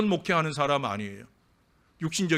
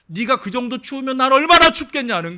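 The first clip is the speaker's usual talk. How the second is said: angry retort; 10 semitones higher, 9 dB louder than usual. Retold or imitated. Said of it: "화를 내며 말했다는".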